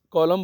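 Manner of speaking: "कॉलम" ending on M; silent N. Shown as a demonstration. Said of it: "बोलते हैं, एन को".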